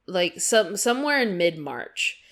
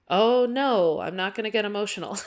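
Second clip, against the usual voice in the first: choking up; 4 semitones higher, 3 dB louder than usual. Real, not acted. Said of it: "I was started to get emotional".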